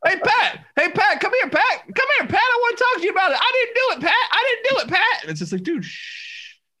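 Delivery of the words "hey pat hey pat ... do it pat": acted, very high, loud, panicky, frantic pleading. Acting out someone pleading with Pat over and over: put-on agitated pleading. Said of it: "Can you calm down?".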